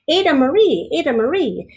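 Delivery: high, loud sing-song call of the name. A narrator's reading. Sing-song opening of story.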